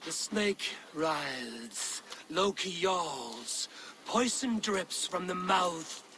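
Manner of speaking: very slow, dark bardic telling; ominous saga recital. Acted. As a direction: let each doom-laden image hang. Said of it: "Sing me one of your sagas".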